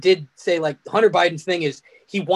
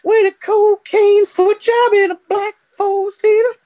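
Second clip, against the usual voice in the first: grand announcer voice; 11 semitones higher, 5 dB louder, slower than usual. Pretend. Dramatic title pitch.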